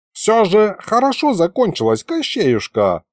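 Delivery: lilting, high start easing down; conciliatory. A narrator's reading. Old man making peace with Koschei, conciliatory. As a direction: soothe him, gently conciliatory. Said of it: "примирительно сказал дед".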